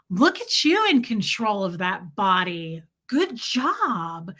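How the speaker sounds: imitated sing-song praise for a baby; lightly voiced grandma gushing over an infant; Brenda. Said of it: "this is how they would talk to a baby".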